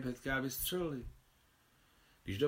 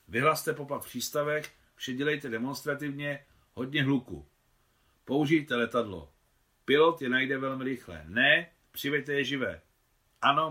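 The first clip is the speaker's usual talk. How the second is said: louder, clipped-free firm commands down the phone; commanding orders; 4 dB louder than usual. Acted. Governor issues phone orders to arrest the bandits, loud and commanding. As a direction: rap out orders to the garrison.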